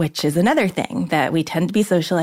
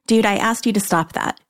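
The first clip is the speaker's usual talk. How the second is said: plainly firm, serious objection; firm and direct; 2 semitones higher than usual. Shown as a demonstration. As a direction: tell a coworker directly to quit it. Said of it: "So firm and direct".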